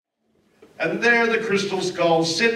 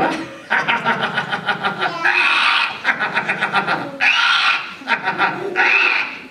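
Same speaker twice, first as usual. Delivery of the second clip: spooky laugh; 3 semitones higher than usual. Acted. Skull laughs ominously.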